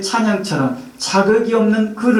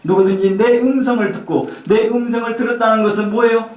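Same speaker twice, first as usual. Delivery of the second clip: ordinary talk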